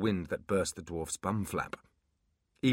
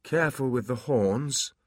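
bleary; 5 semitones higher than usual. Acted. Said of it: "said Abbott, blearily".

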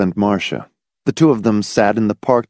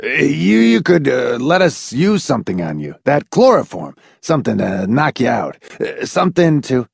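high, halting, stammering eagerness; eager, stuttering; 3 semitones higher than usual. A narrator's reading. McFife proposes a way out to Miss Rice, eagerly stuttering. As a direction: stumble over the words, urgently hopeful. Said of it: "in an eager, stuttering voice".

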